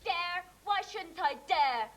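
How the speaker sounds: throws the word dare back at him, defiant; slow, stubborn defiance; defiant echo. Acted.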